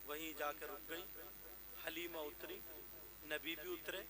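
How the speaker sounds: soft sermon narration; hushed storytelling. A narrator's reading. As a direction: draw the listeners in quietly.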